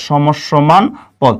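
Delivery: সমসমান পদ said very slowly, every syllable stretched; slow, drawn-out repeat. Shown as a demonstration. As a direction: spell out সমসমান পদ slowly for students to copy. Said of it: "এটাকে আমরা বলবো".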